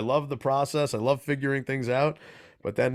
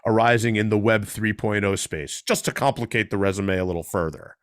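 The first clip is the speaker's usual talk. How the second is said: energetic radio guest introduction; host's bio read. Real, not acted. Host introducing a guest to listeners, announcer-style read. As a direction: read a résumé aloud with lively asides.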